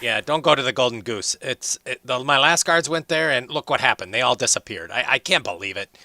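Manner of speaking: high, loud, flustered dwarf; young dwarf voice. Acted. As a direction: panicky squeaky dwarf complaining.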